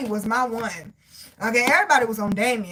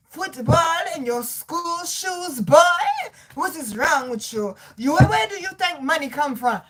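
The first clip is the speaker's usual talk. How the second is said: acted-out parental rant; daddy going off; 4 semitones higher than usual. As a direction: imitate an indignant father telling off his boy. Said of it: "Oh, daddy went off".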